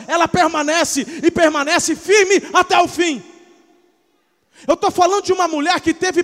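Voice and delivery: loud, high, building preacher shout; fiery preaching. Acted. Preacher crying out about Mary's sons, fiery and loud. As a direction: preach it at full force.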